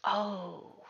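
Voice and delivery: understated widow's lament, trailing off; mild sorrow. Acted. Old lady mourns her husband.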